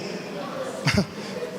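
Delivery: soft laugh. Real, not acted. Laughing after confessing.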